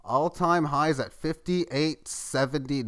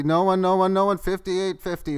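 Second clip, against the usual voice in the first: louder auctioneer closing the bid; calling going, going, like an auction; 5 semitones higher, 5 dB louder than usual. Pretend. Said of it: "I'm gonna feel like an auctioneer".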